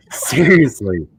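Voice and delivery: high, loud and slow, ridiculing his hair; scoffing at the prime minister's hair, high and slow; mocking disbelief. Real, not acted. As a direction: jeer in disbelief, dragging the words.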